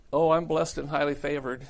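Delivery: a hint of pious cheer, mimicked; lukewarm Christian. Mimics lukewarm Christians answering greeting.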